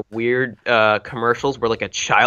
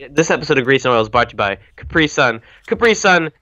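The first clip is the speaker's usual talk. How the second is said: ad announcer. Pretend. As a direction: sell it like a radio ad. Mock sponsor read.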